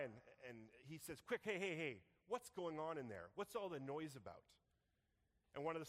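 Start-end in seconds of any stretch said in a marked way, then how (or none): 1.3-4.5 urgent call. Acted. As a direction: shout across the field to find out. Older son calling to servants.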